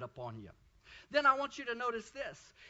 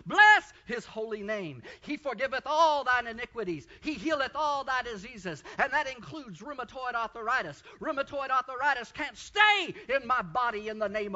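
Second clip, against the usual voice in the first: rising praise shout; 3 semitones higher, 7 dB louder than usual. Retold or imitated.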